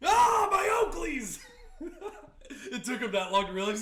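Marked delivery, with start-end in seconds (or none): 0.1-1.4 much higher, loud and slow; mock anguished shout. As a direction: cry out as if the world ended. Old man losing sunglasses.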